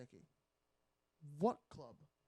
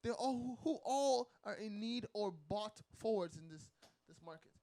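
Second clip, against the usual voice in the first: high, loud incredulous rant; can't believe the choice; exasperated; 8 semitones higher, 7 dB louder than usual. Real, not acted. Exasperated rant about transfer.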